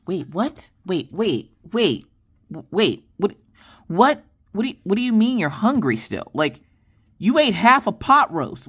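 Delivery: can't believe he's hungry again; exasperated disbelief. Retold or imitated. Mom reacts to son still hungry.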